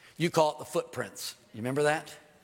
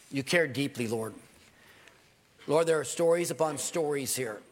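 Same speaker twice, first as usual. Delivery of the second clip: earnest prayer voice; closing prayer. Acted. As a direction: pray sincerely for the congregation.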